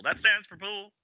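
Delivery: very high mock chorus echo; high-pitched, playful echo of a show line; theatrical echo. Echoing the quoted line theatrically.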